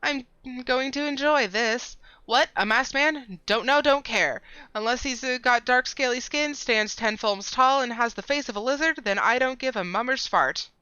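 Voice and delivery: high, loud nasal character; pinched nasal snob voice. Acted. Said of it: "speaking in the nasally voice".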